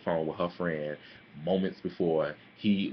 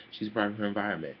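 quoting a friend, quick; 3 semitones higher, faster than usual. Retold or imitated. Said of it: "To quote my friend A La La".

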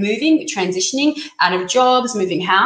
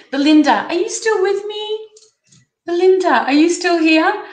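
higher, loud, urgent calling out to her; anxious calling out; 8 semitones higher, 3 dB louder than usual. Real, not acted. Reader calling a viewer back on the live stream, anxious. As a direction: call her back before she leaves. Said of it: "I'm getting far too excited".

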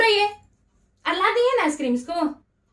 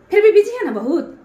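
louder, biting; angry sarcasm; 5 dB louder than usual. Real, not acted. Wife complaining husband is too busy, angry sarcasm. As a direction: spit out the complaint.

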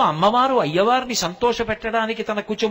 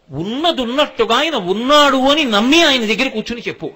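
forceful preaching; 3 semitones higher, 5 dB louder than usual. Real, not acted. Preacher urging devotees.

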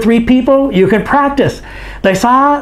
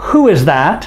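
teacher drill model; 4 dB quieter than usual. Shown as a demonstration. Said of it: "You say them after me".

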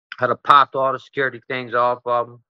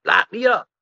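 put-on drunk plea; 7 semitones higher than usual. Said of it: "I'm like".

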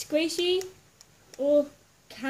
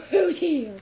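calling out loud, surprised; calling out to see who's there; loud mock call; 6 dB louder than usual. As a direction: shout into the empty room. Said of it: "and I was like".

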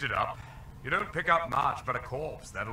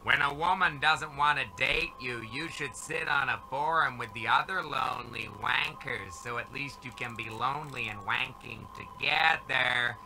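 talking dog voice. Acted. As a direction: preach like a smug dog. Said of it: "The dog is still talking".

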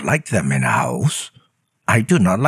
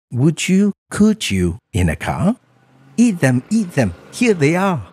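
higher, eager coaxing little voice; Sam-I-Am voice; 12 semitones higher than usual. Acted. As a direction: pester him sweetly with the offer. Sam pushing the food.

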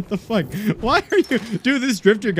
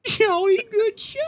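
high, slow posh cartoon gent; exaggerated upper-class old gent; Pops voice; slower than usual. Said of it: "the fucking Meat Canyon version of Pops".

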